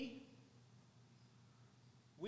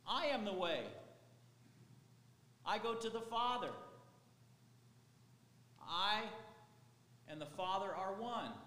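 proclaiming Jesus; 4 dB louder than usual. Acted. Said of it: "and he said".

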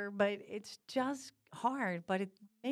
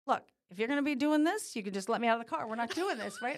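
stern dad; 2 semitones higher, 4 dB louder, faster than usual. Retold or imitated. Dad scolds her in car.

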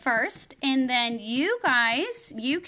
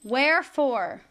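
slow recitation. Shown as a demonstration. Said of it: "Repeat after me with Weston".

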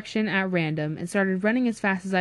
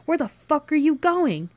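high-pitched, exasperated demand; indignant challenge; 8 semitones higher, 4 dB louder than usual. Acted. Friend challenges the one leaving, indignant. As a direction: demand it in agitation.

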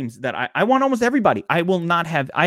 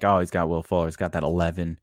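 a much lower, softer mock opponent voice, dismissive; smug opponent; 11 semitones lower, 6 dB quieter than usual. Imitating a fantasy opponent who sneers at a low projection, low and dismissive. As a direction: drop low and shrug off the matchup. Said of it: "Your opponent's always like".

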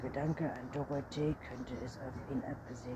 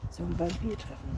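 raised, louder, proud announcement; 4 semitones higher, 5 dB louder than usual. A narrator's reading. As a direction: announce it with obvious pride. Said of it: "sagte der Vampir stolz". (stolz verkündet)

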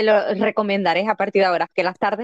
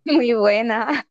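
holding back a laugh, slow; talking through suppressed giggles; stifled giggles; 3 semitones higher, much slower than usual. Real, not acted. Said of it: "aguantando la risa".

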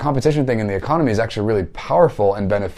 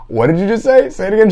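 high, raised-voice disbelief; pitched-up, louder challenge; retold incredulous demand; 11 semitones higher, 5 dB louder than usual. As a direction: act out asking her to repeat it, amazed. Retold incredulous reply to her.

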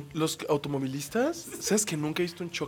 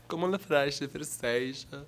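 fake Portuguese; 2 semitones lower, much slower than usual. Shown as a demonstration. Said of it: "También puedo hacer el brasileño".

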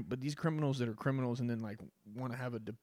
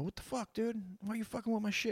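a hammed-up homeowner yelling at a car thief; mock angry homeowner; 10 semitones higher than usual. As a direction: play the outraged homeowner catching a thief. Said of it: "homeowner come out and go".

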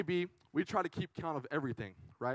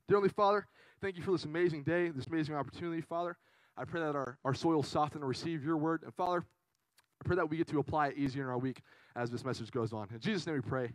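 spoken prayer; 3 semitones lower than usual. Real, not acted. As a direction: lead the group reverently into prayer. Leads a prayer.

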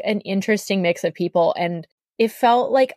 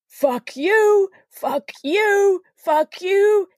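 put-on drunk ranting; 13 semitones higher, much slower than usual. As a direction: spit it out like a sloppy drunk. Drunk guy ranting at nobody.

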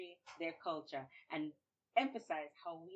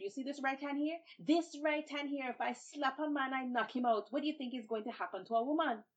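high, loud bragging threat; boastful threat; 7 semitones higher, 6 dB louder than usual. Acted. Babuki brags and threatens the lady, high and loud. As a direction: brag about your right hand. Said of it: "he said".

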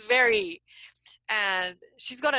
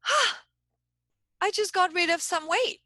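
high, louder release of relief; relieved sigh; 9 semitones higher, 4 dB louder than usual. Retold or imitated. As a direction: let the weight drop off in one breath. Voicing a child's relief.

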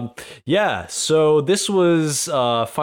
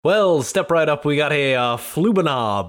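lightly voiced fairground barker, pitch a touch raised; mock fairground seller; 3 semitones higher than usual. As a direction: play at hawking a silly gadget to the crowd. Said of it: "He's selling some sort of magical instrument".

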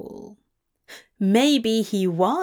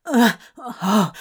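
short strained grunts; grunting; 4 dB louder than usual. A narrator's reading. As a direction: grunt it out under effort. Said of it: "Crowley grunted".

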